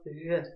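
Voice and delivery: В as throaty Г with rounded lips; округлённые губы. Shown as a demonstration. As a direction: round the lips over a rough throat sound for В. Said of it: "произнести букву Г и при этом округлять". (гортанное «В» с округлёнными губами)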